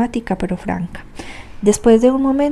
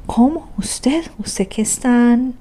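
shocked gasp; 4 semitones higher, much slower than usual. A narrator's reading. Sonia shocked by confession.

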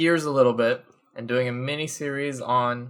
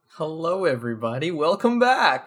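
put-on little old man voice; 5 semitones higher than usual. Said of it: "Sounded like a little old man".

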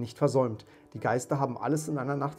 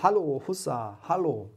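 raised, ringing cheer; jubilant whoop; 4 semitones higher, 5 dB louder than usual. A narrator's reading. Scrooge wishes to be a child, cheering jubilantly. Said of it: "in seinem Jubelsturm".

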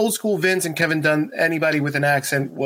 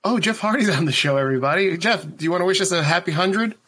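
mock talk show host; 3 semitones higher than usual. Host greets fake guest on show.

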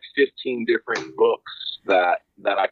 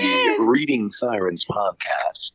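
ad read. Acted. Mock commercial break on podcast.

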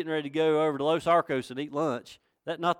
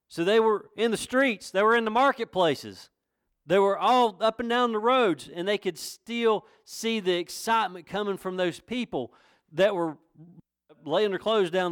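raised, emphatic sermon delivery; fervent preaching; 7 semitones higher, 4 dB louder than usual. Real, not acted. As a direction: press each phrase home to the congregation. Preaches with force.

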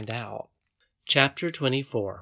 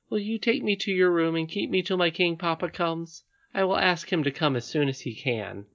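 polite pleading princess; 6 semitones higher than usual. Acted. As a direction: ask politely as a little princess.

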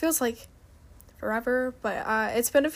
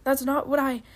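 mild growl; 2 semitones higher, 4 dB louder than usual. Acted. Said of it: "Shotgun growled back".

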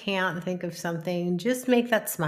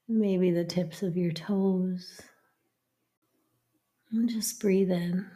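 meditation whisper. Acted. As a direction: breathe the words out in a whisper. Whispered breathing cue.

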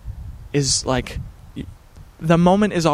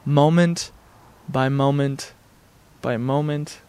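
mantra to oneself. Shown as a demonstration. Speaker shares his daily mantra, said to himself, spaced and fading. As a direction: repeat it to yourself, spaced out and trailing off. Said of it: "just saying to myself".

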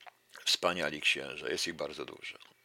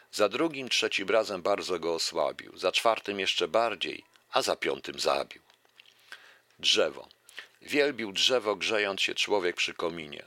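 lively recital of a verse fable; fable reading; 3 dB louder than usual. Acted. Lecturer reciting a fable to the audience, lively recital. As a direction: read the fable out to the audience with relish.

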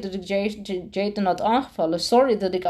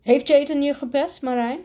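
incredulous question; 6 semitones higher than usual. Acted. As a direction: ask it as if you can't believe it. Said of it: "vroeg de directeur ongelooflijk".

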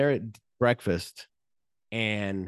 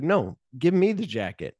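higher, insistent retold order; acted firm demand, pitch raised; mock demand; 6 semitones higher than usual. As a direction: imitate a bossy friend demanding. Acted quarrel over the jacket.

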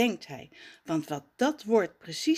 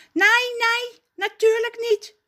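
much higher, louder angry denial; angry cry; 7 dB louder than usual. Acted. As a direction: deny it hotly. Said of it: "roept hij kwaad".

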